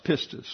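"pistis" stressed on PIS, the second-to-last syllable; stress on first syllable. Shown as a demonstration. Teacher showing a class how Greek is pronounced, "pistis" stressed on PIS. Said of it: "gives emphasis, obviously, on that syllable".

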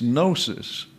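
gnosis said slowly as nosis with no g; silent g. Shown as a demonstration. Teacher slowly modelling gnosis for the class, g silent. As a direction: leave out the gamma, nosis. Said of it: "You ignore the gamma".

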